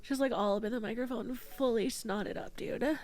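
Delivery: real quiet crying on stream; crying softly. Real, not acted. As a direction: talk through tears, holding them back. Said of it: "Sorry I'm crying on stream".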